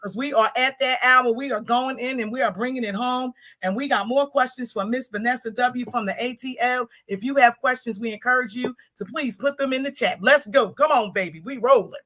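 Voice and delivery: rattled off without a breath; all in one breath. Real, not acted. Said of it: "I can say that all in one breath".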